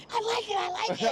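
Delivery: mock ecstatic shout of approval; ecstatic photographer. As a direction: gush with delight. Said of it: "he's like".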